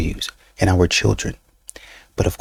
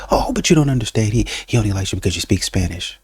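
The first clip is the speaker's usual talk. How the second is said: insistent friend; faster than usual. Retold or imitated.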